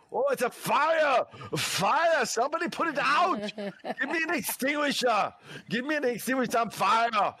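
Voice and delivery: hammed-up Arnold yelling for help; Arnold panicking. Shown as a demonstration. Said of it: "So that's just my demonstration".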